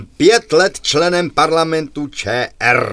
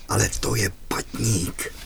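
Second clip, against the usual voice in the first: much softer, low aside to the officer; deputy whispering; 7 semitones lower, 11 dB quieter than usual. Acted. Deputy quietly correcting his commander, much softer and lower. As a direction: murmur it so only the commander hears. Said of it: "Zástupce velitele šeptá".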